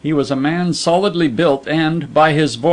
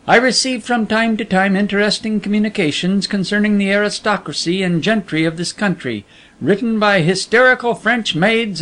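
a lightly voiced secretive editor, a bit higher and quicker; veiled editor; 5 semitones higher than usual. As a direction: play the hidden boss, smooth and knowing. Veiled editor explains the job.

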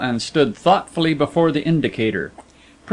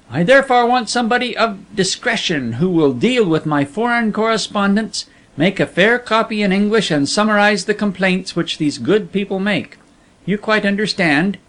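a lightly voiced secretive editor, a bit higher and quicker; veiled editor; 5 semitones higher than usual. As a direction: play the hidden boss, smooth and knowing. Veiled editor explains the job.

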